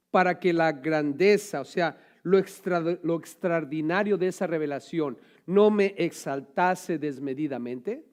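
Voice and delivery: slow, weighty reading of "Para que la grandeza"; slow emphatic reread. Shown as a demonstration. Preacher rereading Paul's verse, slow emphasis. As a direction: lean on each word, slowly. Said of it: "Y dice él".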